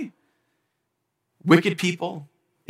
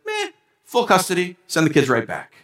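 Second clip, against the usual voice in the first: dismissive judge; 2 semitones higher than usual. Retold or imitated. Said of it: "just says".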